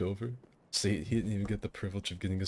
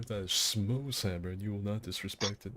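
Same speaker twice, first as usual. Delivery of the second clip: Kronk voice. Retold or imitated. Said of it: "Legit Kronk".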